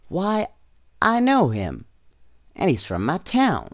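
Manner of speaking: put-on high, eager boy's exclamation; a boy amazed he knows the winner; excited boy. A narrator's reading. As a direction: Homer surprised to hear his town's man. Homer excited hearing a name.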